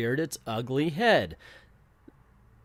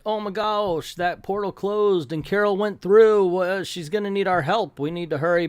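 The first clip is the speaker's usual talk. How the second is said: higher-pitched, lightly fretful voices; hammed-up mild concern; mock worry; 5 semitones higher than usual. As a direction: imitate worried teammates, pitched up. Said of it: "most of the guys are worried".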